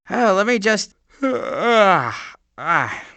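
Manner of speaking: soft strained effort sighs; straining. Acted. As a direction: push hard, breath giving out.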